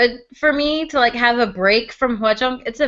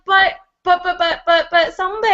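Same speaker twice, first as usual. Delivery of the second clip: protesting whine; 7 semitones higher than usual. Retold or imitated. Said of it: "And I'm like".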